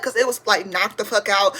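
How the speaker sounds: usual speaking voice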